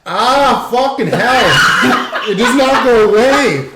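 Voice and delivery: burning mouth. Real, not acted. Burning mouth from chili sauce.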